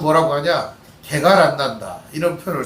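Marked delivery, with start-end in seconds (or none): 1.0-2.0 easygoing Chungcheong dialect phrase, lightly voiced. Shown as a demonstration. Pastor telling the congregation in Chungcheong dialect. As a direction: drop into Chungcheong dialect, low-key. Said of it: "우리 충청도 사투리로".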